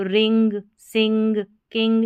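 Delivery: रिंग, सिंग, किंग with nasal n plus ग; focus on ng sound. Shown as a demonstration. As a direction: list रिंग, सिंग, किंग, sounding each ending as अंग. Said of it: "इसके sound के ऊपर focus करें".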